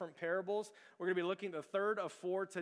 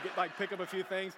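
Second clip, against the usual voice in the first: ordinary talk, nothing marked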